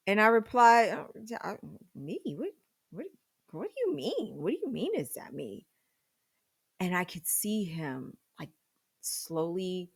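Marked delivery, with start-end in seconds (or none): 0.9-5.7 flustered denial. Retold or imitated. Flustered denial when caught.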